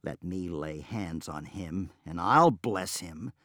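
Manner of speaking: slow sarcastic retort; mild sarcastic comeback; sharp retort. Acted. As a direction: snap back at him. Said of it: "retorted Madrana".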